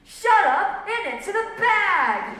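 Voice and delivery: high, loud command; robber's order. A narrator's reading. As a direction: shout her down like a bandit. Robber silencing the pleading woman.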